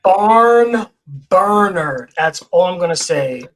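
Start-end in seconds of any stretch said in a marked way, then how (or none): 0.0-2.1 loud, punchy New York delivery; New York accent. Real, not acted. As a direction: belt it out Brooklyn style. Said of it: "used to my New York accent".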